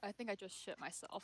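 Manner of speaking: soft, hushed, breath-only whisper. A player's character leans over to a companion during a monster attack, whispering. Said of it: "lean over to Carl and just whisper".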